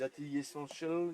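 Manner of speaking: English accent on the brand name. Real, not acted. Presenter showing off products to live viewers, little English accent. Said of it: "Le petit accent anglais".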